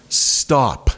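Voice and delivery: high exasperated pleading. Retold or imitated. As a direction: beg the device to stop. Talking to assistant.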